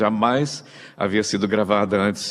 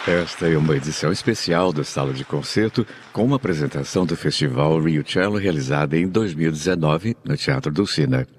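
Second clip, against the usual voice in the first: measured concert-programme announcement, lower and even; radio announcer read; 3 semitones lower than usual. Acted. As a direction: present the programme like a classical radio host. Host's formal concert programme read. (locução formal de rádio clássica)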